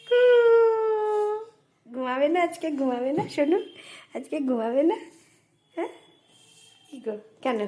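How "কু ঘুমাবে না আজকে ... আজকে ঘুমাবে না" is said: higher, sing-song coaxing to the daughter. Real, not acted. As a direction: coax her sweetly, voice up high. Mother coaxing daughter, pet voice. (মেয়েকে আদুরে উঁচু গলায় ডাকা)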